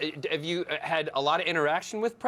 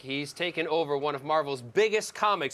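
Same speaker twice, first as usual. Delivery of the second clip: announcer; 4 semitones higher than usual. Acted. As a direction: talk show guest introduction. Host introduces guest.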